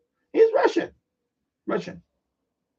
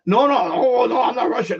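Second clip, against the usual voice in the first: louder, higher retold denial; insistent mock protest, pushed up and louder; indignant correction; 4 semitones higher, 4 dB louder than usual. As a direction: imitate her firmly setting someone straight. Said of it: "she really let me know".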